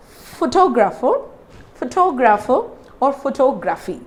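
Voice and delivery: "photographer" and "photography" with TOG stressed; pho-TOG-rapher, pho-TOG-raphy; stress on second syllable. Shown as a demonstration. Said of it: "So I pronounce this".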